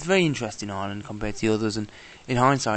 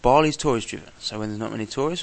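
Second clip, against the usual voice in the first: ordinary delivery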